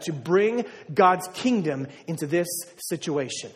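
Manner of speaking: unhurried, each word set down; slow dictation. Shown as a demonstration. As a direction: pace it so they can write. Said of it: "If you wanna write something down".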